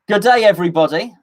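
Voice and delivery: put-on Australian accent; Australian greeting. Streamer imitating an Australian host, mock Australian accent. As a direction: greet everyone like an Aussie. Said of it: "are you Australian?".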